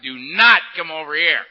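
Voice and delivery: mock threat. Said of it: "I'm mad dogging this guy".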